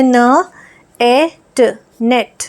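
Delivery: न, ए, ट sounded one by one, then blended into नेट; sounding out net. Shown as a demonstration. Teacher shows children how to blend letters into a word. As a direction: break it into sounds, then join them. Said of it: "ये ई की मात्रा होती है".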